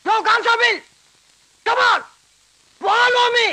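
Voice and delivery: high, ringing holler; racecourse horse call. Acted. Prisoner grandly ordering the constable to follow, high holler. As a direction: call out as if summoning a racehorse. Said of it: "race கோர்ஸ்ல குதிரையை கூப்பிடுற மாதிரி கூப்பிடுறான்".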